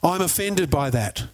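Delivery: mildly indignant mock scolding; lightly acted outrage, drawn out; offended. Offended woman scolding a mother in the shop, mildly indignant. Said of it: "was absolutely offended".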